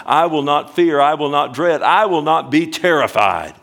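fervent rising preaching; building preacher's proclamation. Acted. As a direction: declare it boldly to the congregation.

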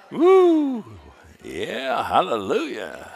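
a high, loud, joyful whoop; excited preacher's shout of praise; joyful woo. Real, not acted. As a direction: cry out in praise.

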